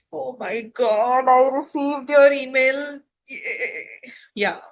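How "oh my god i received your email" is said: joyful excitement. Shown as a demonstration. Teacher demonstrating joyful excitement for students, louder. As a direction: gush with joy over the email. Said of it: "Yes, joyful".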